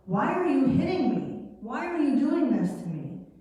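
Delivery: lightly voiced donkey, hurt and puzzled; pleading donkey. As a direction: ask it like a wounded pet.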